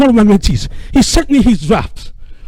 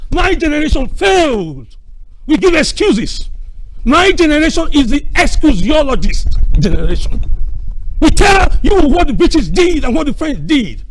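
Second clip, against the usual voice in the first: shouting; 3 semitones higher, 4 dB louder than usual. Real, not acted. Passionate speech about excuses.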